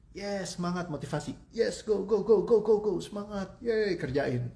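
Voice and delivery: hammed-up motivational cheering; mock hype cheer. Mocking hyped-up self-motivation. (sorakan semangat yang dibuat-buat, lebih tinggi dan keras)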